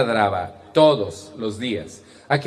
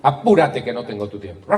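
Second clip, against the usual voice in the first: barking tone. Shown as a demonstration. Speaker showing how she barked at her kids every morning, impatient and harsh. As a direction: bark the order like a grumpy morning. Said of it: "el tono de mi voz era más o menos así".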